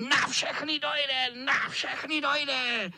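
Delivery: high, slow villain cat; shrieking cat. A narrator's reading. Cat shrieks threats at the boys. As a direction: drag out the threat. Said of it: "ječel kocour".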